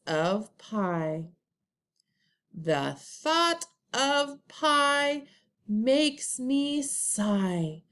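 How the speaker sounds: very slow, drawn-out read-along with pauses; choral read-along. Shown as a demonstration. Teacher leading first graders in reading together, very slow. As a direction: lead the class through it slowly, word by word. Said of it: "let's read the poem together".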